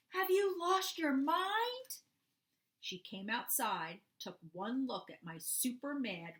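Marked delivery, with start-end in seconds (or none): 0.1-2.0 high, loud shocked scolding; yelling mom. Acted. Mom catching her son breaking the window, angry yell. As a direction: yell it like a furious mother. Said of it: "she yelled".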